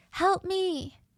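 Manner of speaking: put-on high-pitched, frantic, panicked scream. Retelling a trapped colleague's cry for help, imitating someone screaming. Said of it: "her colleague screaming".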